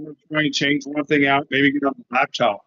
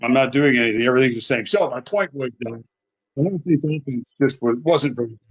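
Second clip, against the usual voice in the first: muffled, trailing off. Real, not acted. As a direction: through a wall, fading. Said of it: "you start strong and then you just".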